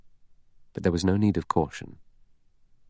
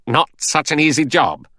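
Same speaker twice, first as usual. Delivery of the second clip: high, loud, effortful delivery; lightly acted panting from exertion; 9 semitones higher, 5 dB louder than usual. A narrator's reading. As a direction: push it out as if straining at a heavy load. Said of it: "Lombard panted".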